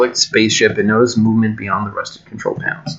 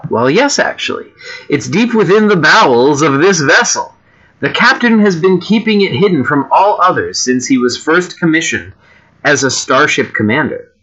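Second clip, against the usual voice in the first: lightly theatrical woman character, lilting pitch; a hint of a stage British lady; lightly voiced British woman; 3 semitones higher than usual. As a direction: play the helpful woman aboard ship, lightly.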